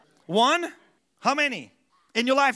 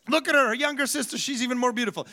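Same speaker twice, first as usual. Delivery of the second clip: put-on Middle Eastern accent; faster than usual. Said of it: "him speaking in that accent".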